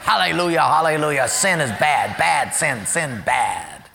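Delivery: hammed-up churchy scolding; lightly mocking holy talk; mock pious. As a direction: parody a self-righteous churchgoer. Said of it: "we can even be hard on sin".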